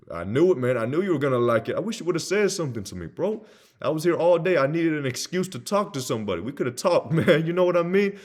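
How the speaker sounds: boisterous, chummy enthusiasm; hyped buddy salesperson. Acted. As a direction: rave like an overexcited pal. Acted buddy salesperson gushing.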